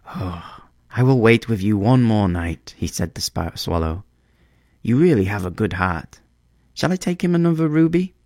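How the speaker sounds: eager small bird offering help; a light, bird-like voice; swallow. Acted. Swallow answers the prince.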